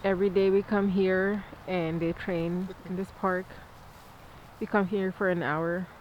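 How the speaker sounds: numb mouth. Real, not acted. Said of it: "I just had my root canal".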